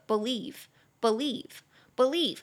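believe with lieve stressed, repeated three times; stress on second syllable. Shown as a demonstration. Teacher drilling believe, stress on lieve. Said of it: "中音节在第二音节".

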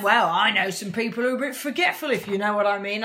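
lightly put-on northern accent; a hint of northern English in a quoted threat. Imitating bin man's veiled threat to police, northern accent. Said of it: "I'm doing that accent 'cause he's northern".

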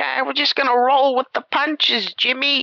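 high, breezy mom voice; mocking the mom. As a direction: brush it off in a lifted, sing-song tone. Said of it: "And she was like".

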